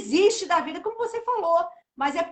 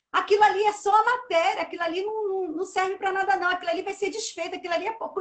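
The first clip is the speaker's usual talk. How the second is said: almost quarrelling; 3 semitones higher, faster than usual. Retold or imitated. Mother dismisses the grave as mere matter, almost quarrelling. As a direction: keep arguing the point, mildly heated. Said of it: "eu comecei a falar assim".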